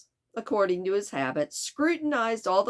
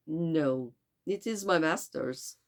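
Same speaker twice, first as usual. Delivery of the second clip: put-on poor French accent; Passepartout. Servant answers about his master's passport, poor French accent. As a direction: attempt a French accent with a stuffed-up nose. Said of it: "tried to do a French accent very poorly".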